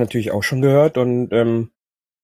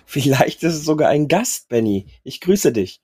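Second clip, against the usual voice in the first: husky, worn-out voice; hoarse voice. Real, not acted. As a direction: speak through a sore, hoarse throat. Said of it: "mit deiner schön belegten Stimme".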